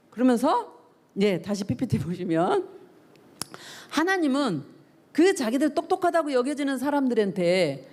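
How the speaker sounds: ordinary talk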